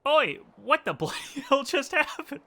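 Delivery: high, laughing mock Cockney outburst; playful fake Cockney exclamation. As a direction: ham up a Cockney kid reading the line. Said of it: "she's supposed to be Cockney".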